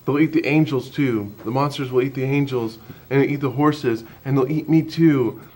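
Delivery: a hint of a high little-girl voice, stubborn; lightly voiced toddler insisting. Dad retelling his daughter insisting the monsters eat everything, lightly voiced. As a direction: mildly raise it like a stubborn toddler. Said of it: "She said".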